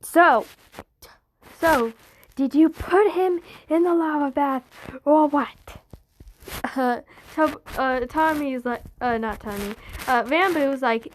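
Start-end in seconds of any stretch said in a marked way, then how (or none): 0.0-5.8 calling on the phone. Acted. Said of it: "back on the phone being like".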